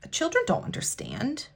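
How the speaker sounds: unvoiced whisper, emotional; hushed, near tears. Real, not acted. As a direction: breathe it out as a whisper. Emotional point about child clients.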